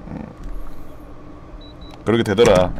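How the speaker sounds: ordinary talk, nothing marked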